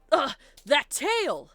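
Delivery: usual speaking voice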